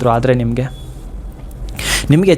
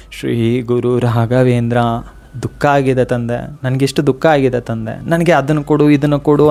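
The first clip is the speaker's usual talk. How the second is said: mock plea; 3 semitones lower than usual. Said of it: "ಅಂತ ನಿರೀಕ್ಷಣೆ ಇಟ್ಕೊಂಡು ಕೇಳ್ತಾ ಇಲ್ಲ".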